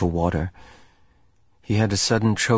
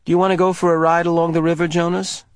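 nervous; 8 semitones higher, 4 dB louder, faster than usual. A narrator's reading. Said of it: "biting her lip with nervousness".

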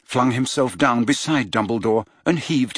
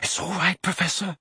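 shaky reassurance; 6 semitones higher, 5 dB quieter than usual. A narrator's reading. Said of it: "said Harry, his hands shaking".

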